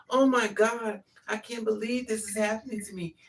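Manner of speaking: high mock-helpless whine on oh my God; mocking helpless victim. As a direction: imitate a passive victim, mocking. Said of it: "You don't sit back and go".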